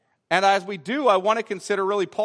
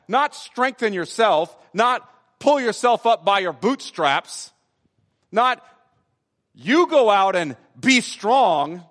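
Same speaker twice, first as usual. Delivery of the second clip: mock bootstrap command; 3 semitones higher, 4 dB louder than usual. Shown as a demonstration. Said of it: "You hear the difference between that?".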